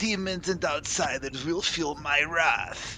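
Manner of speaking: pompous, high politician cadence. While the group talks about roleplay in the session, speak a line sounding like Trump. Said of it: "Why did you sound like Trump for a second?".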